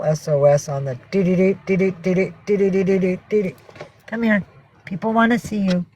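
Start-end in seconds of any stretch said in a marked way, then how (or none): 1.1-3.5 mock distress beeps. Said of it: "like a distress call".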